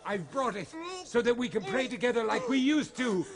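choked, desperate coaxing; tearful pleading. Acted. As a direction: voice breaking with tears as he begs. Priest pleading with possessed son.

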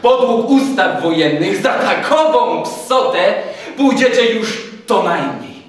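officer laying down martial law; menacing, blustering major. A narrator's reading. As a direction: pronounce the threats one by one.

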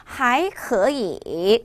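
还可以 slowly, with 可 rising before 以; drawn-out 还可以, 可 lifted to second tone; third tone becomes second. Shown as a demonstration. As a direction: tone drill, 可 rises and 以 dips in 还可以. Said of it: "앞에 있는 삼성 이성으로 바뀌어야 되겠죠".

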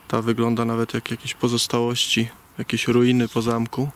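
ordinary talk

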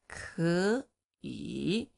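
"Ke yi." with ke rising; tone sandhi. Shown as a demonstration. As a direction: model the change. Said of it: "Next one".

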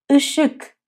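اشک with a nasal ı, ı-şık; Turkish word ışık. Shown as a demonstration. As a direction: say اشک with a nasal first vowel. (اشک با ای دماغی)

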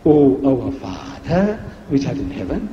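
prayer recitation. Shown as a demonstration. Preacher reciting the Lord's Prayer as Jesus taught it. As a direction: intone it like a prayer. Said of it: "Pray like this".

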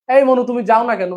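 put-on quick light Barishal accent; Barishal dialect. Teacher to students, quick light Barishal accent. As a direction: toss off the Barishal phrase, fast. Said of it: "এরকম ভাবে কথা বলে না?".

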